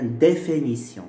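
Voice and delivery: "définition" with the second vowel changed from I to É; assimilated I. Shown as a demonstration. Teacher showing students how the first I becomes É, assimilated pronunciation. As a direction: say "définition" as dé-fé-ni-sion. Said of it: "ça devient E".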